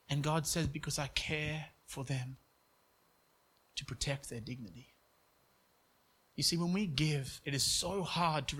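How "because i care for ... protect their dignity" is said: quiet and tender, with weighty pauses; tender divine answer. Retold or imitated. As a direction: gently voice God's reassurance, dropping softer. Voicing God's tender answer.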